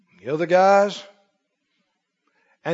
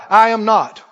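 leading the recitation; 5 dB louder than usual. Shown as a demonstration. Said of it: "Say it out loud".

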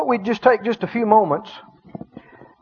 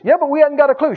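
higher-pitched voice of doubt; doubting head; 7 semitones higher, much faster than usual. Acted. Your own head arguing back at faith, doubting. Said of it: "your head may say".

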